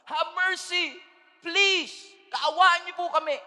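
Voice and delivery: high, loud pleading shout; desperate cry. Acted. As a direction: cry out to Jesus from the roadside. Blind beggar crying out.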